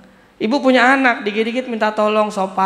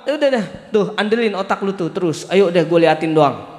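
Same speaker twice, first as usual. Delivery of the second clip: voicing Allah dismissively. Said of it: "apa kata Allah?".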